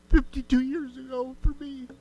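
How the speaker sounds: ordinary talk, nothing marked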